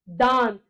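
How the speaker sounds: दांत with a long vowel through nose and mouth; nasalised vowel. Shown as a demonstration. Teacher showing air through nose and mouth, nasalised vowel. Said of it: "मुंह से भी और नाक से भी हवा निकलेगी".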